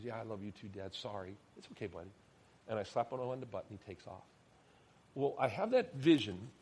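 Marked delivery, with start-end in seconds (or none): 0.0-2.1 soft, lower, affectionate exchange; murmured fatherly reassurance; quietly acted tender moment.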